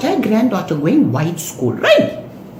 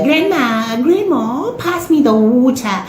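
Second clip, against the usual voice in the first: mock put-on accent, higher on grandma; fake posh accent; 4 semitones higher than usual. Granddaughter asking grandma for water, mock fake accent. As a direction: imitate a granddaughter's affected accent. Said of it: "discussing a fake accent".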